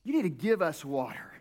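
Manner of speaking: slow, pleading demand; demanding Israelites. Retold or imitated. Israelites demanding water from Moses, mild pleading demand. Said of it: "they're saying".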